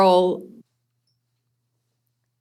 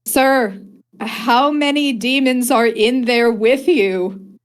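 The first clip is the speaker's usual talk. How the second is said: Beryl voice; 6 semitones higher, 6 dB louder than usual. Acted. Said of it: "she says".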